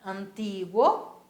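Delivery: Antiguo drawn out slowly with a Spanish gw; slow teacher model of Antiguo; Spanish pronunciation. Shown as a demonstration. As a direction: Antiguo en español, despacio. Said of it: "repitam sempre que possível".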